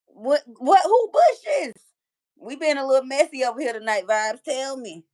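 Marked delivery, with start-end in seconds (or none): 0.1-1.7 higher, louder mock yell from the bushes; hammed-up shout of "What, what, who bushes?", pitch leaping up. Retelling her joke about yelling in the bushes, mock yell. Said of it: "I was in the bushes yelling".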